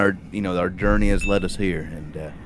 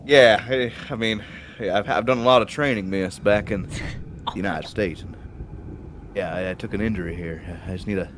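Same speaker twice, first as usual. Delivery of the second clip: hammed-up injury; 3 semitones lower, 7 dB quieter than usual. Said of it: "I'll ham up the injury".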